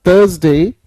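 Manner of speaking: "थर्सडे" as THUHZ-day, no R sound; silent R. Shown as a demonstration. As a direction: model "थर्सडे" for a class, rising on the last syllable. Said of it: "आर की sound नहीं आएगी".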